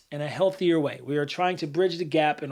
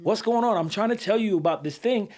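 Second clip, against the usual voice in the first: raised, pressing demand; angry confrontation; 3 semitones higher than usual. Retold or imitated. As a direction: push like a frustrated friend. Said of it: "let's say I don't have good E Q".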